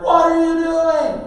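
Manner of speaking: high, loud, drawn-out shout; alarmed yell. Retold or imitated. Parent yelling as son rolls down like madman, alarmed. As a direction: yell in disbelief at a reckless driver.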